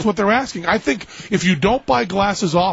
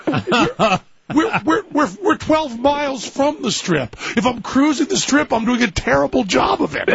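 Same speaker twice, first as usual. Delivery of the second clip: higher, stammering and exasperated; a flustered retelling, pitched up; 5 semitones higher than usual. Retold or imitated. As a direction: sputter it out, pitched up in disbelief. Flustered retold reply.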